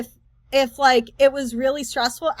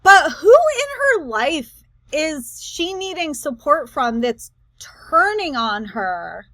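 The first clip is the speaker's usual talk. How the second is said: puzzled question; 2 semitones higher, slower than usual. Real, not acted. Questioning the clip's claim again.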